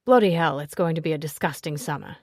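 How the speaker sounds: a loud burst then fast grumbling; exaggerated gross-out; mock disgust. Henry reacts to the couple's joke, loud then fast disgust.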